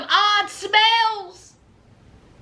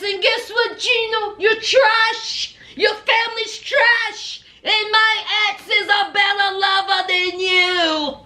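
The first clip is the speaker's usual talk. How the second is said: taunting rant; 2 semitones higher than usual. Retold or imitated. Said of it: "Jasmine says".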